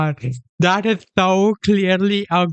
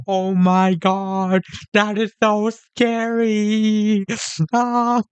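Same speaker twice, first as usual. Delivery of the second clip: slow, higher, hammed-up fright; mock scared; 4 semitones higher, slower than usual. Sarcastic streamer mocking the ghost video, slow mock fright. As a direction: drag it out like fake terror.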